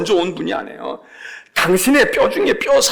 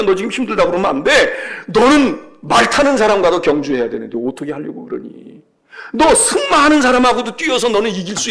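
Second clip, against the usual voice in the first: scolding God. Acted. God scolding Jeremiah, voiced.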